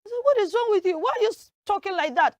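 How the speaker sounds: questioning. Acted. Acted challenge to shivering speaker.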